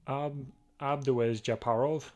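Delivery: Abdouez Japarov sounded out slowly, syllable by syllable; hesitant try at Abdouez Japarov, questioning rise; unsure name attempt. Shown as a demonstration. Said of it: "not even going to even attempt to pronounce that".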